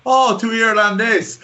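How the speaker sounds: high, drawn-out delighted exclamation; mock-amazed, pitched well up; joking policeman. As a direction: imitate a foreign officer suddenly delighted. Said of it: "he started having a crack with me".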